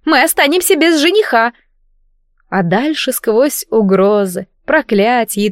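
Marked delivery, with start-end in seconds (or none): 0.0-1.5 yelling. Acted. Princess keeps yelling.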